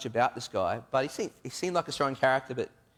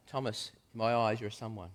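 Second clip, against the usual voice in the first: much softer, gentle comfort; soft reassurance; 3 dB quieter than usual. Acted. Jesus reassuring a doubting Thomas, soft and calm. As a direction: hush his worry gently.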